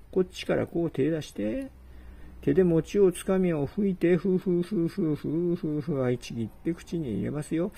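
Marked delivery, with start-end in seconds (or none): 4.2-6.0 blowing on food. Acted. Guest blowing on hot mochi.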